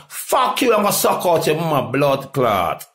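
high-pitched angry outburst, then dropping; angry cursing. Real, not acted. Hitting back over talk to a white girl, angry cursing. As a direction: curse them out, starting very high.

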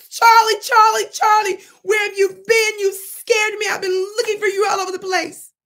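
high, loud crying shout; mother screaming for her lost son; mock frantic mother. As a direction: wail his name like a panicked mom. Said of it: "She started screaming and hollering".

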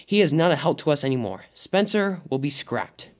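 cross, emphatic verdict, slowing at the end. Acted. Diesel ten condemns Spencer to the Diesels, very cross. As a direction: pass sentence crossly. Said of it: "said Diesel ten very crossly".

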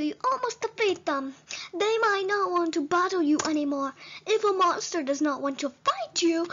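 put-on frog character voice, croaked ribbits at each end; deliberate, emphatic talking frog; advising frog. Frog advises a human on battling monsters, earnest creature voice.

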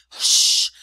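a sharp unvoiced hush. A narrator's reading. Chuchundra hushes Rikki Tikki for fear of Nag, sharp hiss. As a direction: shush him urgently, afraid of being heard. Frightened muskrat silences Rikki.

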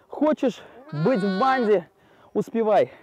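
lamb gang voice. Pretend. Voicing the lambs' gang.

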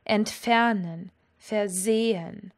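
Entfernen, versehen, slowly, stressing FER and SEH; light prefixes, drawn-out stems in Entfernen and versehen; stress on second syllable. Shown as a demonstration. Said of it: "all work in the same way".

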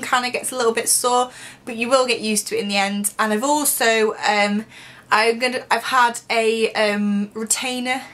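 talking with finger on lip; finger against teeth. Real, not acted. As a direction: hand at mouth while speaking. Seen 2: Fingertip pressed to lower teeth/lip in most frames, briefly lowered between.

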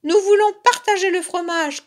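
high, loud squabbling cubs; shouted demand. A narrator's reading. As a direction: cry out your demand like an impatient cub. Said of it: "crièrent ensemble les deux oursons". (cri aigu et fort des oursons)

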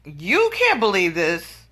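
slow sarcastic echo; mocking. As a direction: throw his words back at him slowly. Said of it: "I was like".

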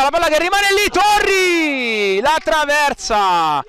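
high, urgent call of a chance; rising excitement at the near miss; excited call. Real, not acted.

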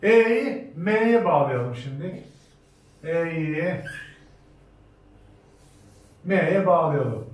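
very slow "E'yi M'ye bağlayalım", spaced out; slow dictation. Shown as a demonstration. Teacher to class, slowly dictating the exercise. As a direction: dictate each piece with long pauses. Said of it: "misallerimize başlayalım".

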